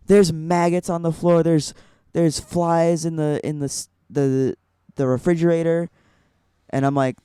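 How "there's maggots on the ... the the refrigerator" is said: freaking out. Retold or imitated. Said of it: "So he's freaking out".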